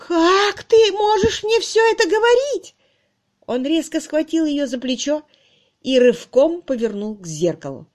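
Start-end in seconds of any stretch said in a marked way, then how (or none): 0.1-2.7 high, loud tearful cry; a hurt spinster crying at her lover. A narrator's reading. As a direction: wail it through tears. Miss Twitterton cries out.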